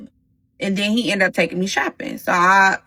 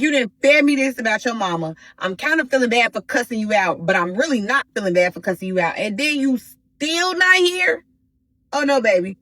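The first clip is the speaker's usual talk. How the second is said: livid; 4 semitones higher than usual. Retold or imitated. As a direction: pitch climbing up high, a mock outraged tirade. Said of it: "So now I'm livid".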